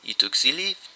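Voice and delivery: calm answer. A narrator's reading. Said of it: "Poirot answered calmly".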